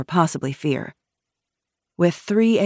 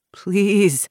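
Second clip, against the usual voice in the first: put-on old man pleading in a higher voice; tremulous plea; 5 semitones higher, 4 dB louder than usual. A narrator's reading. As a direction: beg with a slight tremor. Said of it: "he said in a tremulous voice".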